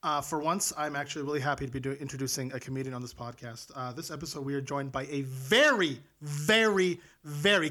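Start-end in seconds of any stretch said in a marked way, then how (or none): 5.2-7.7 each VERY punched, set apart by pauses; emphatic very. Real, not acted. Host building up a special guest, stressing each "very". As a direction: lean hard on every "very". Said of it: "capital V".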